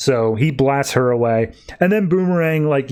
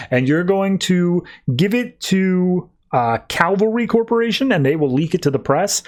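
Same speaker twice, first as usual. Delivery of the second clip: a touch higher, eager plotting voice; mildly hammed-up explaining the plan once more; lightly voiced schemer; 6 semitones higher than usual. Vic Sage briefs Black Manta on the plan, lightly voiced higher.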